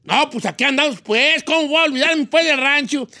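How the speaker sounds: high singsong Michoacán reply; hammed-up Michoacán ranch talk with stretched exclamations; Michoacán accent. Returning friend answers the vato from the rancho, Michoacán accent. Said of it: "¿Y cómo le responde el otro?".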